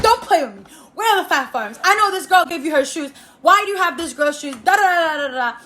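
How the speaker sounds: lightly hammed-up mom lecture; imitating scolding mom. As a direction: rattle off mom's accusations. Mom interrogating her about shoes.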